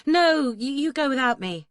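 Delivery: loud, high, stumbling refusal; flustered refusal. A narrator's reading. Bather refusing to share Duncan's tub, flustered and loud. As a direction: blurt it out high, tripping over the start.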